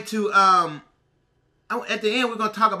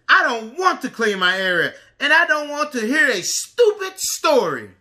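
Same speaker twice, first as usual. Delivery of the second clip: screaming; 3 semitones higher, 3 dB louder than usual. Acted. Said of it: "Missy screamed".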